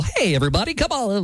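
light, friendly radio invitation; upbeat conversational voice-over; conversational announcer. Shown as a demonstration. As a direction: call listeners in casually, pitch lifting. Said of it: "I'm more of the conversational".

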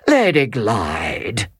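slow, gentle opening of an appeal; gentle address. Acted. Count gently addressing Lady Glyde, slow and tender. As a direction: ease into it kindly. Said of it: "with a gentleness".

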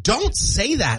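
mock scolding dad. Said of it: "I'm just like".

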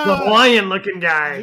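laughing along at a funny description; amused, laughing. Real, not acted. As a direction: repeat it through laughter. Repeats funny quote amid laughter.

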